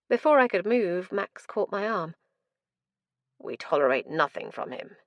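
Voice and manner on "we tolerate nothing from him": stern warning. Acted. Max warns narrator sternly.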